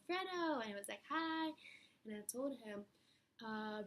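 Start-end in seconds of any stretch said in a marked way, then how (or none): 0.1-0.6 high, loud call of a name; retold scream. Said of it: "and I screamed". 1.1-1.5 imitated high, loud hello; called-back greeting. Voices Fredo's greeting back.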